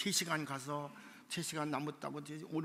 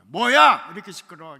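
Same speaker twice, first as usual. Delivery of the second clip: loud, higher demanding bark; loud what; 3 semitones higher, 17 dB louder than usual. Retold or imitated. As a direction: snap a sharp what. Manager demands what is going on. (지점장이 크게 뭐야 하고 외침)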